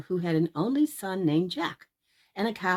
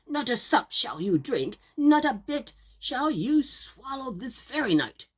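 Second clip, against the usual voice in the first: firm scolding, a little higher; stern mother; 4 semitones higher, 3 dB louder than usual. Acted. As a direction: send him to bed hungry. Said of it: "says Jack's mother".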